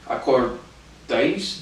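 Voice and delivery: Acordais sounded out very slowly syllable by syllable, rising at the end; slow careful reading. Shown as a demonstration. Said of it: "Now here's what it's".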